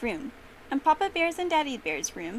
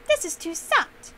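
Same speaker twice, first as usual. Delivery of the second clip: slow, higher, louder complaint; complaining; 7 semitones higher, 7 dB louder, slower than usual. A narrator's reading. Goldilocks trying the other side of the bed, complaining. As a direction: draw out a raised-voice complaint.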